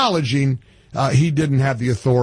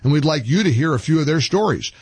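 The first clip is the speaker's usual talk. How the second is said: polished sales pitch with lively pitch swings; radio ad read; 3 semitones higher than usual. Acted. Host pitching supplements to radio listeners, animated ad read. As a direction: read it as a testimonial-style radio commercial.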